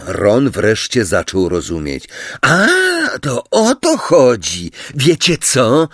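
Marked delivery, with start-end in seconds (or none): 2.4-5.9 higher, venomous retort; cross, raised-pitch challenge; snarled realisation. A narrator's reading. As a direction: snap as if you've had enough. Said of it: "warknął Simius".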